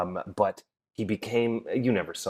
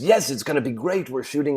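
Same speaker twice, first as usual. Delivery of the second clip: put-on producer's accent; 4 semitones higher than usual. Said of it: "I can't do his accent".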